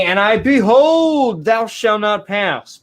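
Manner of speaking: hammed-up voice of the Lord; mock booming Lord. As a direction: boom it out like God. Booming God voice.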